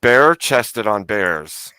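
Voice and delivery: slow, savoring each word; relishing the image, drawn out; slow savoring phrase. Shown as a demonstration. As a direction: draw out the phrase slowly. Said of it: "proposing a phrase slowly".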